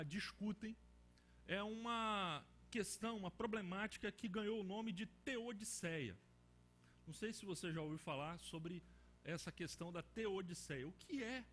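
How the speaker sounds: ordinary talk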